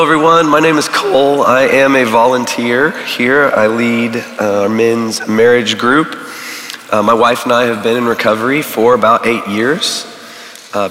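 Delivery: usual speaking voice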